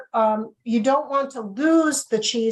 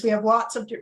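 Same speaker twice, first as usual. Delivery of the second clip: talking through hiccups; words cut by a hiccup; faster than usual. Real, not acted. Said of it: "I have the hiccups now".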